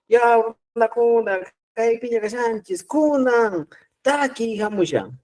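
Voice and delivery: anuncio agudo de presentador en escena; presentador de concierto. Pretend. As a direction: anuncia la canción como un maestro de ceremonias. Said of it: "yo soy el presentador y les digo". (el profesor imita a un presentador de concierto, voz aguda de anuncio)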